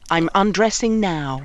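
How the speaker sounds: slow, breathy playful whisper; mock whisper. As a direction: tease the listeners. Playful radio joke.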